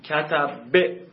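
کتب said very slowly, sound by sound; slow pronunciation demo. Shown as a demonstration. Teacher showing students how to say the word, slowly. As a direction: stretch کتب out slowly so students hear every letter.

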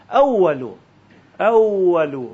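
اولو with rounded lips, no teeth; firm, drawn-out w in اولو; correct waw. Shown as a demonstration. Teacher models the reading after the warning, lip-rounded waw. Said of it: "تا دندونه اومد بدون غلطه".

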